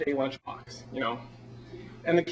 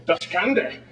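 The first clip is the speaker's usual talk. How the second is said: mock German; slower than usual. Playing Das Boot action figures in the submarine, mock German. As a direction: fake a burst of submarine German. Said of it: "that whole German thing".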